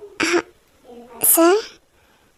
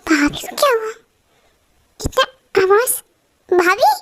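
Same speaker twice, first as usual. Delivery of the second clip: hushed worried whisper; 5 semitones higher than usual. Acted. Worried question about crying sister-in-law.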